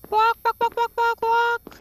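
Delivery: high, loud quacking squawks; imitated chicken call. Player calling Chica in her own tone, high quacking squawks. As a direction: squawk like a bird, very high and sharp. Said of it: "trying to call her in her tone".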